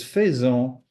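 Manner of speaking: "faisons" as "fay-zon", first vowel wrong; mispronounced faisons. Shown as a demonstration. Teacher rejecting the wrong form, mispronounced "faisons" as "fay-zon". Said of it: "it's wrong".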